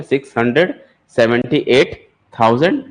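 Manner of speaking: "सिक्स हंड्रेड", "सेवेंटी एट", "थाउजेंड" said as separate chunks with short pauses; chunked reading. Shown as a demonstration. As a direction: read the number piece by piece for the class. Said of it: "ऐसा बोलेंगे". (संख्या को टुकड़ों में रुक-रुक कर पढ़ना)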